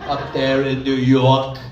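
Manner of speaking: chesty Bronx accent, laughing. Shown as a demonstration. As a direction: Bronx accent pushed from the lungs. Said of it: "if you go to the Bronx".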